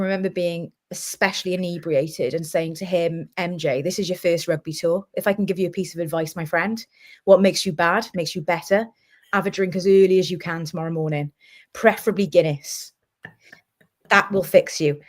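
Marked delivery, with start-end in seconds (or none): 3.4-15.0 put-on slipping into a broad Welsh accent; tipsy Welsh advice to a new friend. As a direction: let the Welsh come through, drunk and matey. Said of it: "you went properly Welsh".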